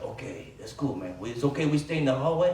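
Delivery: put-on soft, casual Latino-accented reply; imitated Latino accent. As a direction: ask easygoing permission in a put-on Latino accent. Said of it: "I apologize for the accent".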